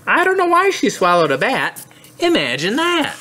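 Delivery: lively picture-book narration; read-aloud to children. A narrator's reading. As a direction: read it to little kids with bounce. Recites story to children.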